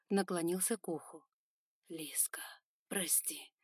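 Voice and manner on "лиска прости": soft whisper close to the ear. Acted. Son whispering into the girl's ear, whispering. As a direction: breathe it to her.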